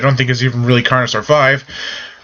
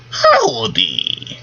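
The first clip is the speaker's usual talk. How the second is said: high put-on southern howdy; southern accent; 9 semitones higher than usual. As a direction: drawl a cowboy greeting. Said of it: "I sound just like the fucking leprechaun".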